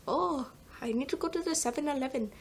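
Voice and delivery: a light, mocking imitation of an Indian accent. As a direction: tease the line in a lightly put-on Indian accent like a classmate would. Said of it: "without someone going like".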